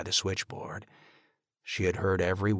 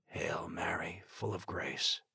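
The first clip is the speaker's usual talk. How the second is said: much softer, unvoiced plea; whispered prayer; 8 dB quieter than usual. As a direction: breathe the prayer at the door. Father prays before seeing daughter.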